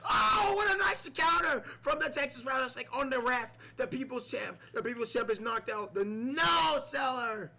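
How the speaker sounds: high, loud screaming commentator; excited shout. Pretend. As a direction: yell it like the finisher just landed. Commentator yelling over big spots.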